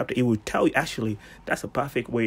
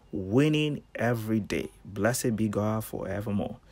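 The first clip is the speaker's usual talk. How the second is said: confession read-out. Shown as a demonstration. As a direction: pronounce it for them to repeat. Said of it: "repeat after me".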